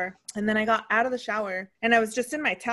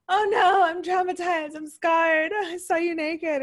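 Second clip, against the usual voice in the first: mock traumatized kid; 8 semitones higher, slower than usual. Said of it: "And she was like".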